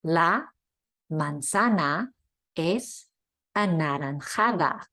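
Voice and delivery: "La manzana es anaranjada" word by word, every a open; slow, each a the same; consistent Spanish a. Shown as a demonstration. Teacher reading a sentence word by word, steady a. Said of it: "the sound is consistent throughout".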